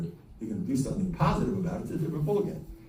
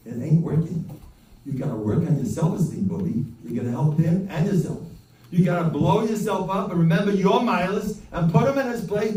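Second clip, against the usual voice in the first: firm advice; 4 semitones higher, 4 dB louder than usual. Retold or imitated. Telling off the suffering father.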